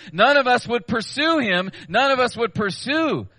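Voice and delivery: none of us said high and loud; forceful quote. Real, not acted. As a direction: proclaim it like a warning.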